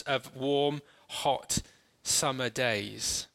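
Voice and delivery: calm, unhurried scene-painting for closed eyes; walk them gently into the story; guided meditation. Acted. Leads an imaginative guided meditation.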